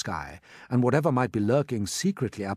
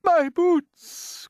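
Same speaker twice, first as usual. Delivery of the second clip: very high, loud wail; distressed cry; 7 dB louder than usual. A narrator's reading. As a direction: wail over a precious loss. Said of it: "cried the centipede".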